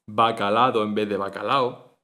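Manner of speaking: "bacalado" with the d said clearly, then plain "bacalao"; added d sound. Shown as a demonstration. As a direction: add the d, then drop it. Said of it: "se añade ese sonido".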